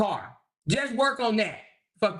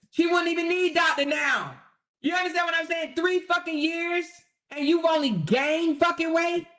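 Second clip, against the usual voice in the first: higher, incredulous ranting shout; exasperated shout; 6 semitones higher than usual. Real, not acted. Ranting to viewers about the rival, shouting. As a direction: blast the disbelief at her.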